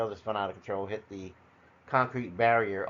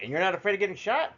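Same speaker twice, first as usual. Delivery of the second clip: higher, quick disbelieving question; incredulous brother; 9 semitones higher, faster than usual. Retold or imitated. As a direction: brother can't believe his calm. Brother incredulous about gun.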